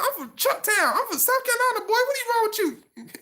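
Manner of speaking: very high-pitched, indignant Geechee impression; mock-offended Geechee, way up high; Geechee accent. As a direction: imitate the homeboy telling someone off in Geechee. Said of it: "he had this accent called the Geechee".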